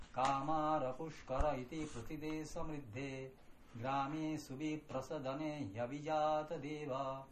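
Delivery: even measured recitation of the Sanskrit stanza; recited Sanskrit hymn verse. Acted. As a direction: recite the verse in a steady lilting chant.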